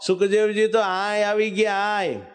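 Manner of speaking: mild mock call across a distance. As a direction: call the two riders back, lightly. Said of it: "બૂમ પાડેલા". (હળવી બૂમ પાડીને બોલાવવું)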